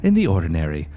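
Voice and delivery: lightly voiced nature documentary narrator; Attenborough narration. The speaker narrates the show intro like Attenborough, lightly voiced. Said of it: "narrated by Attenborough".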